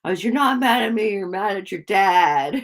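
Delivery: quick, loud movie-quote voice; Adam Sandler. Retold or imitated. Quoting the Big Daddy movie to viewers, mock confrontation. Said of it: "that Adam Sandler".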